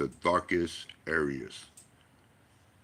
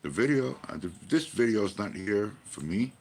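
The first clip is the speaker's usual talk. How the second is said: emphatic; 4 semitones higher than usual. Retold or imitated. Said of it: "And I go".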